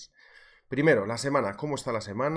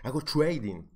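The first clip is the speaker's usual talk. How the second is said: mocking a show-off saying "trading" with English "t͡ʃwejdin"; "trading" said as a fake English "chweidin", mock snobby; posh anglicized trading; 3 semitones higher than usual. Streamer mocking show-off traders, fake English accent. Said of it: "esa gente que pone esos acentos cuando habla".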